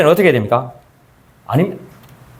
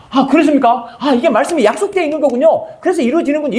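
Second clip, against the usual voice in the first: higher, eager accepting voice; ideal humble reply; 6 semitones higher than usual. Retold or imitated. A believer gladly accepts the promise, higher. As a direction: act out gladly accepting the word.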